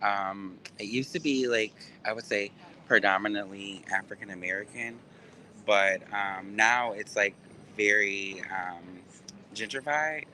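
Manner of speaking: muffled behind a face mask; through a mask. Real, not acted. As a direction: talk through a covering mask. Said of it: "I got this mask on".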